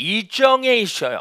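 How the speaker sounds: put-on, mangled, mispronounced Korean pronunciation. Retelling how someone answered where the lounge is, imitating garbled korean. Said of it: "발음이 좀 잘 안 돼요".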